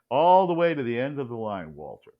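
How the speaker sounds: put-on film line in a New York accent, loud start dropping away. Quoting Double Indemnity to the host, light New York accent. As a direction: lightly imitate a New York movie actress. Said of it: "Barbara Stanwyck says in her lovely New York accent".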